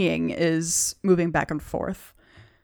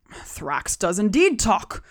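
hobgoblin voice. Acted. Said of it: "he says".

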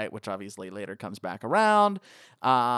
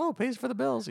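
a dancer's line pitched very high; high voice for the lady; 12 semitones higher than usual. Retold or imitated. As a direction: lift way up into a mock ladylike voice. Voicing the dancer in dialogue.

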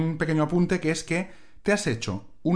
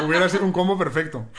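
laughing; 3 semitones higher than usual. Real, not acted. Laughing at the joke.

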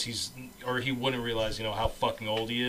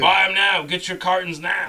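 loud, high hawker's call; urgent mock shout; 7 semitones higher, 10 dB louder than usual. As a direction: shout it like a last-chance warning. Mock urgent warning about the ban.

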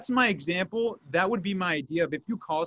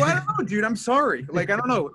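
higher, a touch louder, flustered shrug of an answer; flustered apology; 4 semitones higher, 3 dB louder than usual. Retold or imitated. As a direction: sound cornered and unsure, dude. Retelling his own flustered reply.

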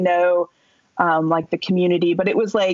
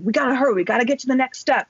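higher-pitched, urgent mock yell; retold yelling; 5 semitones higher than usual. Woman yelling at teammate to hurry, mild higher-pitched mock yell. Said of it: "yelling at Eric".

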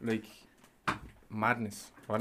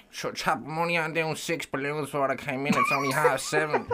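higher mocking coworker voice, breaking into a laugh; 4 semitones higher than usual. To his mate, mocking site workers, higher and laughing. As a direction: take off a lazy coworker.

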